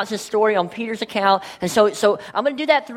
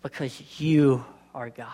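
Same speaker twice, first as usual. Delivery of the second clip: hushed whisper of awe; 9 semitones lower, 4 dB quieter than usual. Real, not acted. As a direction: breathe it out in reverence. Whispered line in prayer.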